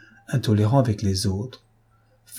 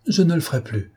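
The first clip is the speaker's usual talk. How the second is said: sobbing; 7 semitones higher than usual. A narrator's reading. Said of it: "sanglota Dosia".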